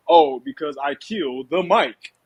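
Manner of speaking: slowly spelled-out mock explanation; measured, mock-proper answer; cleaned-up rapper. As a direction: lightly imitate a rapper sanitizing his name. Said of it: "he tried to clean it up".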